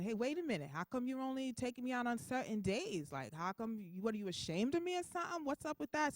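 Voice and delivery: lightly indignant, pitch climbing to the challenge; a hint of a miffed, demanding partner; indignant butt pad. Butt pad confronts its wearer about being left home, mildly indignant.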